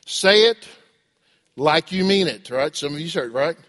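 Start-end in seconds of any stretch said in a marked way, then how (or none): 0.0-2.5 lightly acted firm parent, emphatic; raised, punched words of a parent's order; parent correcting child. Parent prompting a child's apology, lightly acted firm order. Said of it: "then what do we say".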